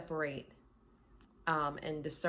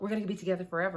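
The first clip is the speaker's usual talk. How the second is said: louder, eager, not rushed; mock excited gush; 4 dB louder, much faster than usual. Client gushes to the reader, louder and eager. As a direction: blurt it out hopeful and keen.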